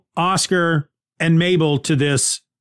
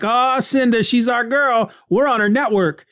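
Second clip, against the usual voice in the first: mild excited gushing, higher; light fan-girl gush over Cinda; gushing cousins; 7 semitones higher than usual. Retold or imitated. Both cousins gush about Cinda.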